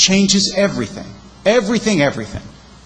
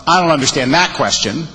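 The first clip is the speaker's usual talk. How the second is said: "that" stressed, rest of the line held back; shifted accent; 3 semitones lower than usual. Shown as a demonstration. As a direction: lean on "that question" at an ordinary level. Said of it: "subject to the accent you give them".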